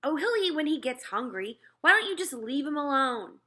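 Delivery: put-on high, fed-up kid voice; an annoyed boy waving his mother off; older brother telling mother to leave toddler alone, exasperated. Peter answers mother.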